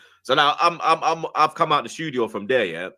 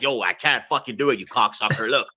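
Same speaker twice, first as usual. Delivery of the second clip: a hint of an exasperated boss swearing down the phone; Dave Portnoy impression; 3 semitones higher than usual. Portnoy on FaceTime can't fly him out, mild mock impression. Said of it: "That's a big Portnoy".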